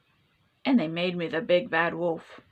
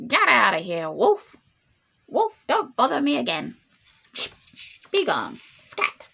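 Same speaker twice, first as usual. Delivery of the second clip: a louder, rude brush-off; a touch of a snippy pig voice; 2 semitones higher, 3 dB louder than usual. Acted. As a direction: shoo the wolf away from behind the door. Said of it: "what that rude little porker pig answered".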